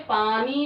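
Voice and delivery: पानी with a clearly held ee at the end; teacher sounding out the ending of पानी; long final ई. Shown as a demonstration. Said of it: "last में से आई बड़ी ई की".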